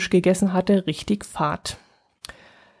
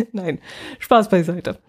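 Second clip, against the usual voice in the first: laughing; slower than usual. Real, not acted. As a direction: say it through a small laugh. Lacht über ihren eigenen Scherz.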